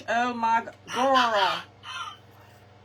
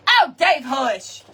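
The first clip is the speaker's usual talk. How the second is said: quick loud shush; shushing Dave; 7 dB louder, slower than usual. Real, not acted. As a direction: hush someone interrupting. Shushing someone during outro.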